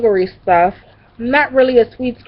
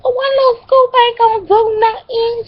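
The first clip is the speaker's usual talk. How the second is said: much higher whining plea; whiny pleading; 14 semitones higher than usual. Retold or imitated. Pleading with cousin for one scoop, whiny. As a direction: whine like a begging kid. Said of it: "I said".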